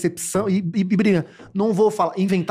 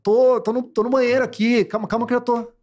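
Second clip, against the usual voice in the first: rushed, higher-pitched panicky reply; flustered from toilet; 5 semitones higher than usual. Retold or imitated. Man on toilet answers girl outside: flustered, rushing. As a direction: stall her, sounding caught off guard.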